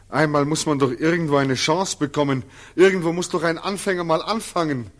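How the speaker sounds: rushing, desperate insistence; urgent pleading. Acted. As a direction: press him hard, words tumbling out. Returnee pleads for a chance.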